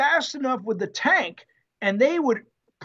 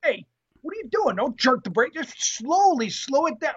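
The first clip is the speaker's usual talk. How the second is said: pitched-up mock parental scolding; scolding dad; 4 semitones higher than usual. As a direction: correct a learner driver, exasperated. Acted dad scolding new driver.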